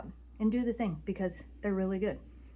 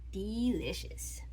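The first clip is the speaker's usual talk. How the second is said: slow breathy whisper; 7 dB quieter, much slower than usual. Real, not acted. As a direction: whisper it slowly, savouring.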